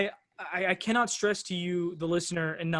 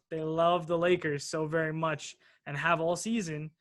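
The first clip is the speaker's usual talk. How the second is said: dryly sarcastic praise. Real, not acted. Host to listeners on the forecasters' love of Lakers, sarcastic. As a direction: say it with understated sarcasm. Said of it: "you know I'm being extremely sarcastic".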